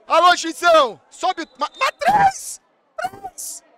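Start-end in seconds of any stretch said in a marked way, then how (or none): 1.6-3.6 very high stretched cry; excited shriek. Real, not acted. Streamer counting the goals in a high excited shriek. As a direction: squeal the number out.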